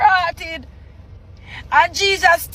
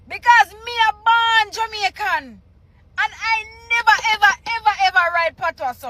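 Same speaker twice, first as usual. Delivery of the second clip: indignant protest; 5 semitones higher than usual. Real, not acted. Indignant at the patois spelling.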